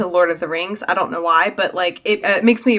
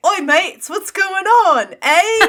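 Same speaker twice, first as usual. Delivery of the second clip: high, breezy "oi mates" with a laugh at the end; Merry's cheery greeting; 11 semitones higher, 4 dB louder, slower than usual. Retold or imitated. Merry greeting his scared friends, high and breezily casual. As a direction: toss it off like a chummy pal strolling up. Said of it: "he's like".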